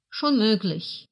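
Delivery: «schon» hit first, then falling; stress on schon. Shown as a demonstration. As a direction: lean on «schon». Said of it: "Слово schon выступает ... функции частицы". (ударение на «schon», интонация падает)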